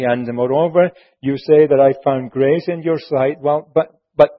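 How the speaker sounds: Moses pleading. Retold or imitated. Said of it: "Moses is saying".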